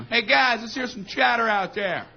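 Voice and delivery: half-strength imitation of a coach's holler; coach yelling. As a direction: call out to the team from the dugout. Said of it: "our coach would yell from the dugout".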